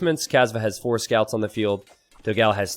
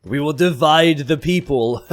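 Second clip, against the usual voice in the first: slow, hammed-up villain announcement; evil voice; 3 semitones higher, 4 dB louder, slower than usual. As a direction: play a mock menacing villain. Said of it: "my evil voice needs some work".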